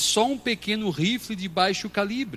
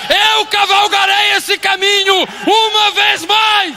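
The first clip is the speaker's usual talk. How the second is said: loud, high shouted sermon, slowed; full-force preaching; 11 dB louder than usual. Acted. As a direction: hammer each phrase at the congregation. (pregação gritada com toda força)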